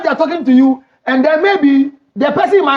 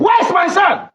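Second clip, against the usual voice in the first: demanding mother-in-law; 4 semitones higher, slower than usual. Retold or imitated. Mother-in-law demanding son, acted.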